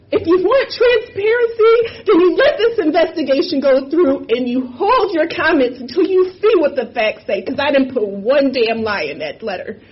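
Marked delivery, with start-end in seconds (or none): 0.1-7.4 real tears breaking through a raised voice; pleading through sobs, pushing the words out; crying. Real, not acted. Demanding the investigation go through, voice cracking with tears. Tearful plea for transparency.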